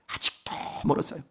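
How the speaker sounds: soft, breathy whisper of a confession; whispered aside. Real, not acted. Pastor whispers an aside to the congregation, hushed. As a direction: let it slip out under your breath.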